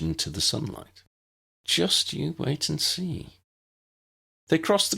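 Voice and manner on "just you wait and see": slow, raised playful promise; teasing Tessa. A narrator's reading. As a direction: tease her gently.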